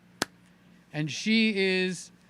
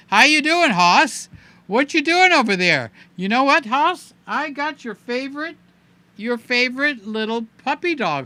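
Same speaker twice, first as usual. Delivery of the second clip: put-on playful baby talk; 5 semitones higher, 6 dB louder than usual. Playful talk to Hoss about toy.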